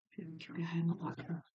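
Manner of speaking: whispered aside. Real, not acted. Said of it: "aside while fetching the oracle".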